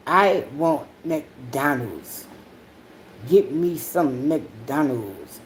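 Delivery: low, slow mock whine of a sulking kid; whiny kid. Imitating her hungry son demanding McDonald's, low and slow mock whine. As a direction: drag it out like a grumpy child demanding food. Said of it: "Then, then he get mad".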